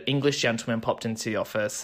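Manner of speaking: a touch of an English accent. Real, not acted. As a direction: slip lightly into an English accent. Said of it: "say that with an English accent".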